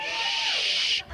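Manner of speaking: piercing high shush. Real, not acted. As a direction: hush the hecklers sharply. Comic shushing the rowdy crowd.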